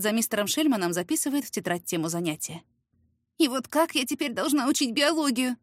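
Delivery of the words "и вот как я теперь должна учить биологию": rueful sigh. Acted. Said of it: "сокрушённо вздыхает".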